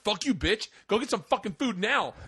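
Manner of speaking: mock rude customer. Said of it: "And he'd be like".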